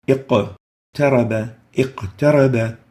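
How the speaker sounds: "اقترب" with the qaf released before ta; "اقترب" as iq-taraba, brief echo on q; low qalqala. Shown as a demonstration. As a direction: lightly bounce the q in "اقترب". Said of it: "it's the lowest level of qalqala".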